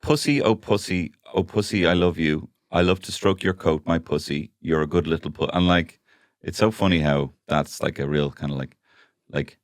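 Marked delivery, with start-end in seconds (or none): 0.0-5.5 nursery rhyme reading. Shown as a demonstration. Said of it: "nursery rhymes that are essentially".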